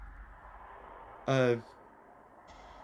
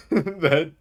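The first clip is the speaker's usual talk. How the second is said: Tim Allen; 6 semitones higher, 6 dB louder than usual. Pretend. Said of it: "that sounded a little too much like, uh, um, Tim Allen".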